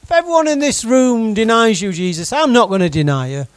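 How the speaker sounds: a forceful vow that opens loud and settles; loud declaration. Acted. Peter vowing to Jesus he won't deny him, loud then firm. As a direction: declare it, starting with a loud cry. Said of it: "Peter declared".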